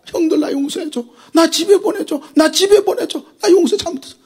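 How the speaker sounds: high pleading cry; begging brothers. Acted. Joseph being sold, begging his brothers, high tearful plea. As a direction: plead to be sent home.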